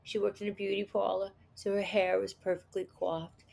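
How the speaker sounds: put-on a light New Jersey accent, recalling the character. Actress recalling her character in a light Jersey accent. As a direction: ease into a mild Jersey accent. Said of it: "You're kinda doing, like, a Jersey accent".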